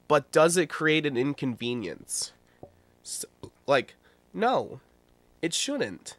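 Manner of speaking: unvoiced whispered aside. Real, not acted. Vlogger whispers a question to his viewers, hushed. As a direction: drop to a breathy whisper for the question.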